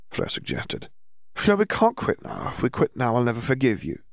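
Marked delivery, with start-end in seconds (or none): 1.3-4.0 put-on dreamy girl. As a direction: brush off worry in a floaty haze. Dazed Hermione.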